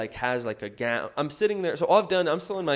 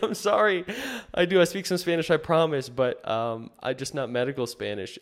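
high, loud flustered apology; apologizing nervously to an annoyed doctor, high-pitched; 5 semitones higher, 5 dB louder than usual. Retold or imitated. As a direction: plead your case, much higher and louder. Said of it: "And I was like".

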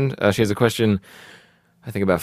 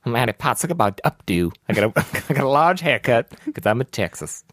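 loose mock-Texas accent; Annie Potts. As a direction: slur it in a comic Southern accent. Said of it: "that was the accent".

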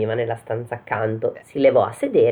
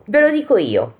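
mild cry; 7 semitones higher than usual. Acted. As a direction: pipe up all at once, lightly. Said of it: "gridò a un tratto Pollicino". (grido improvviso, accennato)

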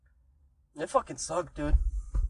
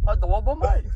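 put-on English accent; 3 semitones higher than usual. Friend joins the English accent.

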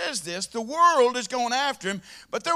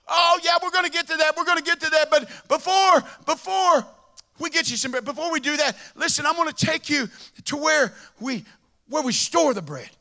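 eager shopkeeper; 4 semitones higher, 3 dB louder than usual. Acted. Bread store guy eagerly stalling.

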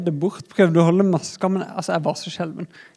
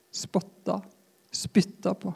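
usual speaking voice

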